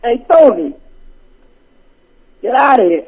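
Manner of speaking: put-on mobster Italian accent; Italian-American accent. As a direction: do a rough Sopranos-style Italian accent. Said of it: "trying to get my Italian accent together".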